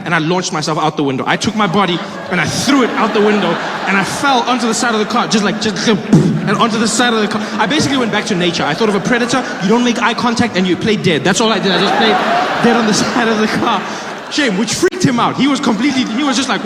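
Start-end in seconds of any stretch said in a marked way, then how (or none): none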